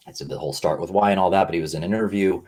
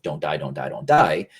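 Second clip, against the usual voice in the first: mock primal panic; 2 semitones lower, 4 dB louder than usual. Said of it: "stuck in this primal brain of".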